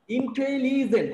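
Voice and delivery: ইন্টেলিজেন্ট sounded out as in-te-li-jent; ইন্টেলিজেন্ট said in measured syllables. Shown as a demonstration. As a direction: separate the syllables of ইন্টেলিজেন্ট for counting. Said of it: "কয়টা syllable আছে বলো".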